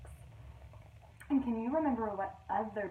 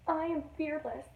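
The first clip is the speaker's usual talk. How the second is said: unsure self-reassurance; 6 semitones higher than usual. Acted. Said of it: "tried to convince herself".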